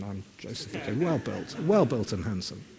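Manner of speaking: stomach held in, voice tight and soft; sucking in stomach. Real, not acted. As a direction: speak while holding the belly in. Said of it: "I'm sucking my stomach in at the moment".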